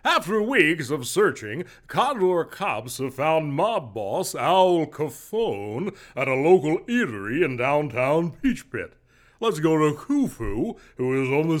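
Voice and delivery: brisk breaking-news read; news anchor. Acted. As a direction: announce it like a TV anchor.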